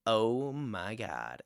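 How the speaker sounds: very slow, soft "oh my God"; lightly voiced gloating classmate; imitated smug classmate. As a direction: draw it out quietly, mocking her. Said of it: "and she's just like".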